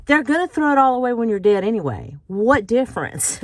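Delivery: tossing off her friend's blunt advice; quoting her friend. Retold or imitated. Vlogger quoting her friend Laura, lightly voiced and quick. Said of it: "she says".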